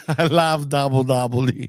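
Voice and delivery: put-on monotone Russian-accented line; deadpan Russian wrestler; heavy Russian accent. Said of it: "Remember that?".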